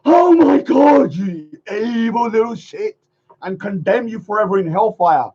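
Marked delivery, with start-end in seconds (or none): 0.0-3.0 loud outraged exclaim that drops away; mock divine outrage; mock God voice. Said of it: "God's gonna be like".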